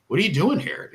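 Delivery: mock surprised coach. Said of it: "he's like".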